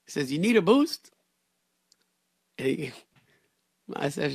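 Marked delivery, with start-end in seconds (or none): 0.3-1.1 high, loud friendly offer; higher and louder, eager helpful stranger. Retold or imitated. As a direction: cheerfully offer to help. Worker offers help.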